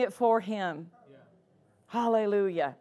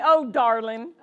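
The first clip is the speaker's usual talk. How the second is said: laughing fond greeting; 2 semitones lower than usual. Retold or imitated. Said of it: "She calls me".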